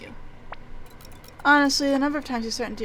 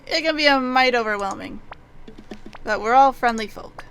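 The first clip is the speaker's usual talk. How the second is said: put-on a lightly drawled, louder old-timer voice; folksy western shopkeeper; 4 dB louder than usual. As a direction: play the friendly frontier storekeeper, lightly voiced.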